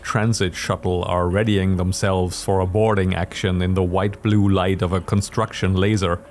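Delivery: measured storyteller narration; story narration. A narrator's reading. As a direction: narrate the scene steadily.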